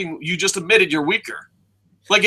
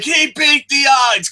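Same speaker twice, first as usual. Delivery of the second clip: higher, louder hyped-up commentator call; mock announcer hype; 9 semitones higher, 4 dB louder than usual. Commentators hyping Roman Reigns as underdog, mock shout. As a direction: sell it like a big comeback. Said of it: "They're like".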